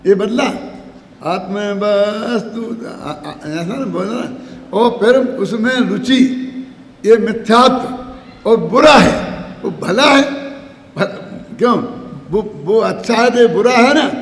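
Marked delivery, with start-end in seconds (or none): 4.8-14.1 emphatic. Real, not acted. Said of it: "पूरी तरह बदलना".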